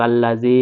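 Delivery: "জি" held a little long; "আল্লাহ জি" with its last vowel lengthened; one-alif stretch. Shown as a demonstration. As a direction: draw out the vowel of "জি" for one beat. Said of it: "এক আলিফ টেনে পড়তে হবে".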